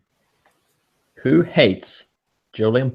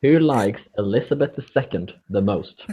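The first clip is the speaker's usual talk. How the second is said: repeated louder, each word clear. Real, not acted. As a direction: say it again so they hear it. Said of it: "A little bit what?".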